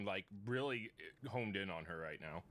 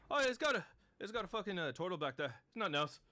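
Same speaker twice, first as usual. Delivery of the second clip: much higher, louder squeaky gnome; a brash little gnome, high; 9 semitones higher, 5 dB louder than usual. Acted. Gnome leaving the caravan, high and brash.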